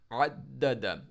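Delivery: अद्दद with a hard doubled द; shadda on dal. Shown as a demonstration. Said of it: "दाल को अपने शद्दा के साथ". (अद्दद में दाल पर शद्दा का ज़ोर)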